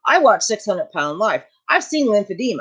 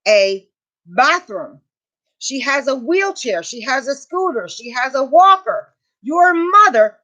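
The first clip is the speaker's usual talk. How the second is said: indignant rant; 4 semitones higher than usual. Real, not acted. Ranting at uncaring husband.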